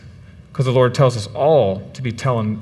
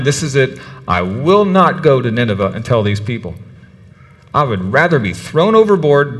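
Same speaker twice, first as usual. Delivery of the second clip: 1 stubborn Jonah. Retold or imitated. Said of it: "he's thinking".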